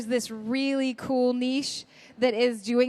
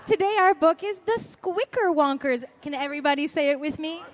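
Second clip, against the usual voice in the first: singsong puppet show host; 4 semitones higher than usual. Pretend. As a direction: lead the little ones in a sing-along. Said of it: "get you to read one of your favorite verses".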